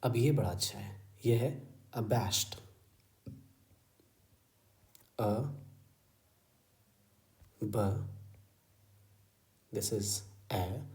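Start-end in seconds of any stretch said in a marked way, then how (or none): 1.3-10.8 very slow, drawn-out syllables; teacher spelling out sounds slowly; slow sounding out. Shown as a demonstration. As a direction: stretch each sound slowly. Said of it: "slow sounding out".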